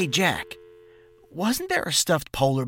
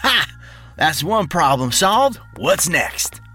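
high, gloating cheer; triumphant; 10 semitones higher, slower than usual. Acted. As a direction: crow over a little victory. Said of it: "with a triumphant win face and said".

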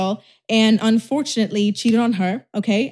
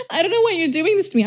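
high, quick pleading imitation; mock sentimental; 8 semitones higher, faster than usual. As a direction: plead like a hurt girlfriend, hammed-up. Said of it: "they were very more sentimental".

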